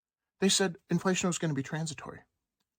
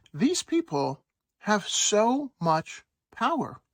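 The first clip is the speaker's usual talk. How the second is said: awed layman; 6 semitones higher, much slower than usual. Retold or imitated. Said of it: "you're saying".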